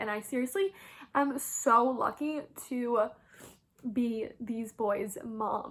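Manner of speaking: slow, tearful, choked-up voice. A mother speaking about how lucky she is with her sons, choked up. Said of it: "I can't believe I'm getting choked up right now".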